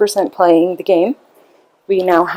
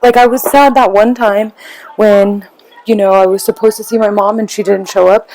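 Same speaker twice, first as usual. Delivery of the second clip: put-on higher, breezy kid brushing it off; lightly voiced child acting casual; nonchalant kid; 4 semitones higher than usual. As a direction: play it down like nothing happened. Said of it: "the kid acts nonchalant".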